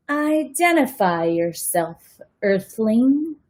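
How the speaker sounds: slow, mock-robotic demand; robot alien challenge. Freak points his crutch at Max, slow mock robot voice. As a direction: play a kid pretending to be a robot.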